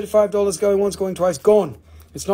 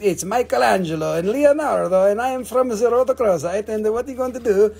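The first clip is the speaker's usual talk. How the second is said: lightly put-on turtle character, lively and higher; Ninja Turtle toy voice; 5 semitones higher than usual. Seller playing with turtle eyeglasses, playful character voice. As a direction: play the turtle, pitched up. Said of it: "You got to do it this way".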